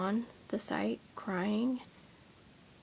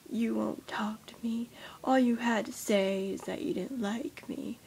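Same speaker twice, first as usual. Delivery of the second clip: mock dramatic whine. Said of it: "he was so dramatic".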